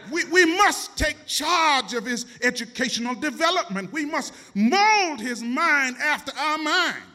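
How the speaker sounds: loud, eager, rising scheming voices; high loud cries of eager teachers; excited shouting teachers. Retold or imitated.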